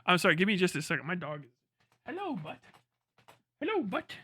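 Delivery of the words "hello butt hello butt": talking to a dog. Real, not acted. Greeting his dog.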